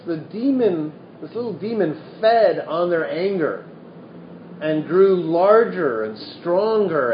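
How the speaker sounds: lively storytelling voice reading scripture; animated reading of a Buddhist parable; story narration. A narrator's reading. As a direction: tell the old tale to the room. Continues reading the sutta story.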